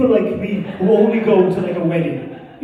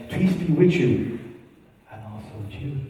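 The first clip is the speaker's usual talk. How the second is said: put-on old mass response; 5 semitones lower, 3 dB quieter than usual. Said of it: "what did he used to say".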